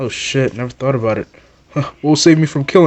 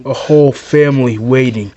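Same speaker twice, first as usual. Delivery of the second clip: a touch of a grim sniper talking to his target; brooding villain; 4 semitones lower, slower than usual. Acted. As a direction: speak like a tired murderer justifying himself.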